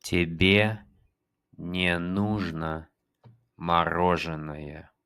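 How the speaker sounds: slow, careful Russian; slow teacher demo; slow model. Shown as a demonstration. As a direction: draw out "мороженое" slowly. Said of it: "teacher models slowly".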